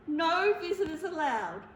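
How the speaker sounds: tearful, still firm rule; sniffling. Acted. Bear tearfully repeats the rule to the mouse. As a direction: say it through sniffles. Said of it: "he sniffled".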